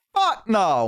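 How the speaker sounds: high, loud mock yell; group shout. Friends answering together, loud high shout. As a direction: yell it like the whole raid team. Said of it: "we all went".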